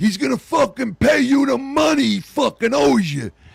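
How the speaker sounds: put-on Brooklyn accent. Voicing an AI that thinks it is a guy from Brooklyn: Brooklyn guy accent. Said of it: "some short fucking fat guy from Brooklyn".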